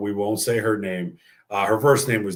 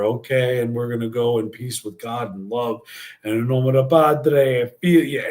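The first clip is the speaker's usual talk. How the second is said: priest intoning; 3 semitones higher, 4 dB louder than usual. Retold or imitated. Priest blessing the church during mass, lightly intoned.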